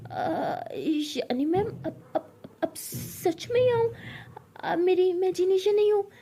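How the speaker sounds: high, amazed question; can't believe she's real; stunned disbelief. Acted. Pari stunned Ishani is real. (हैरानी से पूछना)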